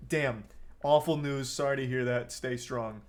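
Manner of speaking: decent sympathy. Shown as a demonstration. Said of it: "a general decent response".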